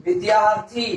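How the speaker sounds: विद्यार्थी with long, separated syllables. Shown as a demonstration. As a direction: stretch विद्यार्थी out for the class. Teacher repeats answer for class.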